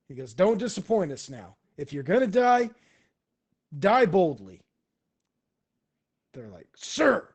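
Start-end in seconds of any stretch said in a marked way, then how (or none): 0.3-4.6 loud, high-pitched exhortation; hearty commander's charge; rousing send-off. Acted. Kung Po sends men off. 6.7-7.3 loud, high, snappy reply; soldier's acknowledgement. Acted. Mercenaries answer their boss.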